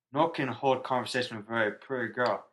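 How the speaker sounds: put-on slurred drunk repeat. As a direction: drunk voice again, very pretty girl. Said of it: "In, in drunk voice".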